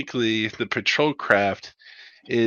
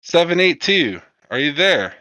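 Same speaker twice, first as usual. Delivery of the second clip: higher, louder radio hail to a lost pilot; crackly comms call, pitched up; radio operator; 7 semitones higher, 5 dB louder than usual. Acted. Operator hails the downed pilot seven eight two, urgent radio call.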